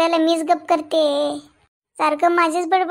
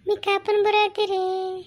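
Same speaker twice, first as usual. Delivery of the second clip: mock crying; 2 semitones higher, 3 dB quieter than usual. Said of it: "आता रडायला काय झालं?".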